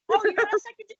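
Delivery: ordinary talk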